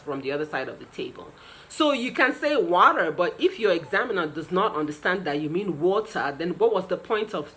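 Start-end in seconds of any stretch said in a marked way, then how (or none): 2.6-3.1 American "water" with a rolled R; American accent. Shown as a demonstration. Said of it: "using that American accent". 5.8-6.3 British "water" with no rolled R; non-rhotic British "water"; British accent. Shown as a demonstration. Contrasts with American version just said.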